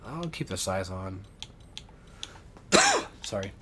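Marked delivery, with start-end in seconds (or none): 2.7-3.2 sudden sharp coughing fit; choking cough. Real, not acted. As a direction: cough like something went down wrong. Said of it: "I was choking there for a second".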